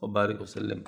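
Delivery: low, steady recited dua; closing prayer. Acted. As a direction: murmur the closing Arabic prayer evenly. Closing supplication.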